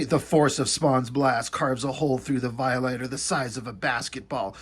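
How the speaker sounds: measured read-aloud narration with a mocking edge; comic narration. Reviewer reading a comic's gory caption aloud, mock narration. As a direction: read it out like overwrought prose.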